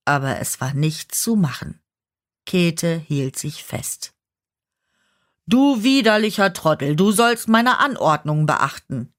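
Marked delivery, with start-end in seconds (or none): 5.5-9.1 laut und höher, voller Wut herausgeschrien; brüllend. Acted. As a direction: der alte Herr brüllt seinen Diener an. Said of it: "brüllte ihn der alte Herr an". (wütendes Anbrüllen)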